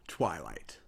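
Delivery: soft hushed whisper; whispered name. Acted. Discord whispers Twilight's name to tempt her. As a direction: lean in and whisper.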